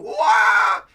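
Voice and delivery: a cartoon yelp for Luffy; imitating Luffy's scream; imitated scream. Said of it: "a giant scream from Luffy going".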